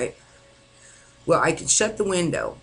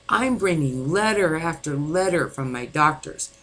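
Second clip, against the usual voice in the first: desperate plea; 5 semitones higher, slower than usual. Retold or imitated. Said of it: "And I'm telling him".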